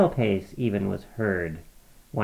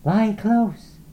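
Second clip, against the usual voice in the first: Laura; 10 semitones higher, 4 dB louder than usual. A narrator's reading. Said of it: "Laura said".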